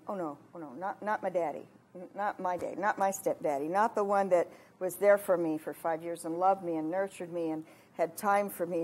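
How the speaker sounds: soft, low protest of disbelief; retold stunned grief. Retells hearing of stepfather's death.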